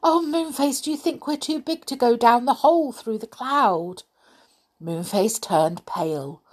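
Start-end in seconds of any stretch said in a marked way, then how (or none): 0.0-4.0 Silky voice. Acted. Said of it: "she said".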